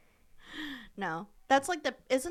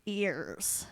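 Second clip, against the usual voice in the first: sexy whisper; 4 semitones lower, 6 dB quieter than usual. Pretend. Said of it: "that's me sexy talking".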